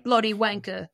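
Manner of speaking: high, put-on British accent. British soldiers brushing off the stranded squad, in a mock British accent. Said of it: "they're British".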